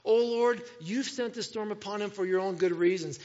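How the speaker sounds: pleading. Acted. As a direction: open loud, then keep pleading. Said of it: "they pleaded".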